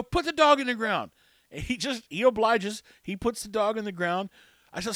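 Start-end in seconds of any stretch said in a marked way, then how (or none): 0.0-1.1 commanding. Retold or imitated. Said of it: "I go".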